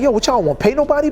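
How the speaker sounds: imitated amazement. Dame quoted, amazed.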